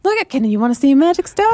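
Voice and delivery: fast, high, eager Southern turtle. Acted. Turtle shows a magic stone, high and eager. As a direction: show off the stone excitedly.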